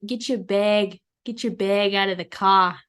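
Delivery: a light East Coast accent, "bag" said as "beg"; mild New York East Coast accent demo. Shown as a demonstration. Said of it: "My East Coast voice".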